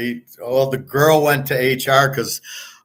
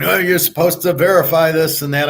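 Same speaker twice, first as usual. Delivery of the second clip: higher-pitched imitation of a scolding coworker; retold telling-off, mildly raised voice; mock yelling; 5 semitones higher than usual. Japanese coworker scolding the new budget person, mock yelling. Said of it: "some Japanese guy starts yelling at me".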